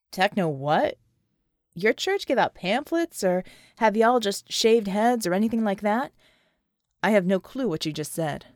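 gruff special ops man doubting magic; skeptical soldier. Acted. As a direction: challenge her, unconvinced. John baffled by explanation.

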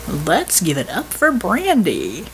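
slow, showy DJ hype; staged enthusiasm. Acted. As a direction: fake excitement, drawn out. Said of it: "with staged enthusiasm".

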